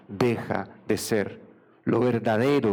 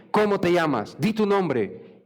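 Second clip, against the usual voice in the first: higher-pitched, insistent questioning; stern demand; 6 semitones higher than usual. Acted. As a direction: demand the name, drawing out the order. God confronts Jacob, demanding his name. (exigencia insistente, en tono más alto)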